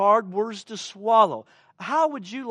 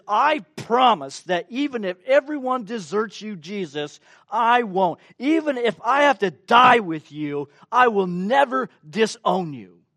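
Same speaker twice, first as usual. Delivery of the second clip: louder, higher insistent promise; bold vow; 4 semitones higher, 7 dB louder than usual. Retold or imitated. Peter promising Jesus he will never leave, loudly. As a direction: swear it out loud against the warning.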